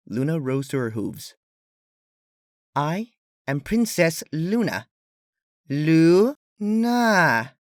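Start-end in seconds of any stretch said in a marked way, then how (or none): 2.7-7.5 slow, higher insistence rising louder on the name; insistent princess. Acted. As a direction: correct them firmly, stressing the name. Luna insisting on her name.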